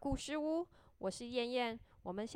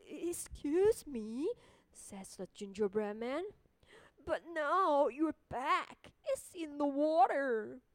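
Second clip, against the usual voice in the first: gingerbread man voice; 4 dB louder than usual. Acted. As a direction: point it out nervously.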